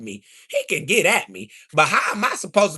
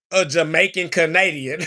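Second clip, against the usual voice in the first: amused laughing disbelief. Real, not acted. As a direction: crack up while saying it. Laughing at the claim.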